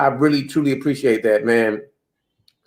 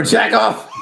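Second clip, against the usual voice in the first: laughing punchline; 8 semitones higher than usual. Acted. Punchline read while laughing.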